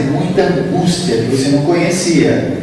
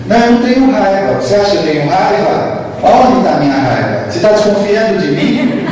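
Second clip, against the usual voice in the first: defensiva irritada; 5 semitones higher than usual. Acted. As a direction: bristle at the accusation, half-laughing. Acted defensive denial, rising aggression. (negando a raiva já irritado, em tom alto)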